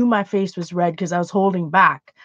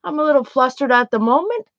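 strained sweet service voice, a bit higher; forced politeness; 4 semitones higher than usual. Retold or imitated. Barista to rude customer, forced sweet politeness. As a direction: keep it polite through clenched patience. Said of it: "I said".

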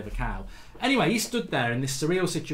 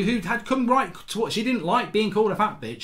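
ordinary talk

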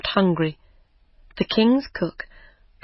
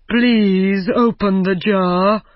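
slow, pleading call from inside the jar; trapped giant begging the fisherman, slow; 3 dB louder, slower than usual. Acted. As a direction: beg to be let out, drawn out. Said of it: "called the giant".

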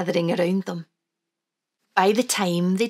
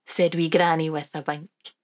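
Wee Granny voice. Acted. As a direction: sing it out like a fond granny.

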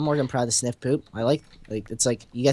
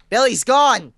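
mock lament; 8 semitones higher, 6 dB louder, slower than usual. Mock grief over lost pickaxe.

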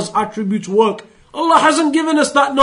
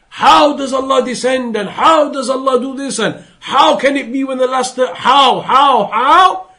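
mock insistent questioning. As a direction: imitate endless questioning, last "how" pitched up. Mocking endless questions of how.

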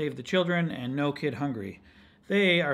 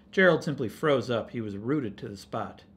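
put-on story read to children. A narrator's reading. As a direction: tell it to children, sinking as he freezes.

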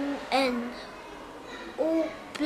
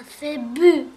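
proud loud answer; 7 dB louder than usual. Shown as a demonstration. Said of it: "des syllabes avec des consonnes".

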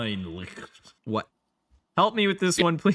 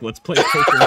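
squeaky high laughing voice; laughing mock character; 9 dB louder than usual. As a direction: pitch way up, laughing through it. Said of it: "he's like".

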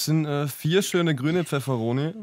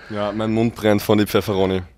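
talking with a burning mouth; speaking through the chili heat; mouth burning from spicy food. Real, not acted. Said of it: "kann der Thomas auch nicht wirklich reden".

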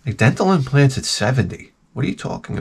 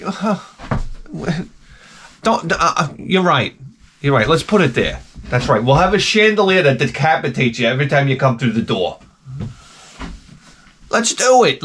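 a hint of a cowed husband; sarcastic giving in. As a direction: cave in with heavy sarcasm. Mock timid giving in to wife.

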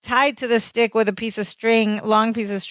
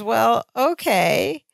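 slow drawn-out okay; much slower than usual. Retold or imitated. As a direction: stretch out a hesitant well okay. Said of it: "And she goes".

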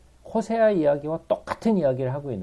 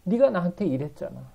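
tearful; 4 semitones higher than usual. Acted. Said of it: "하나님이 울면서".

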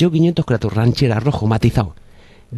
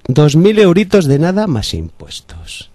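car salesman; 3 semitones higher than usual. Acted. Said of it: "el vendedor".

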